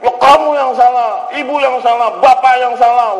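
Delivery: high-pitched accusing cries; mock quarrel yelling. Husband and wife blaming each other, mock yelling. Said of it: "kita teriaknya tuh luar biasa".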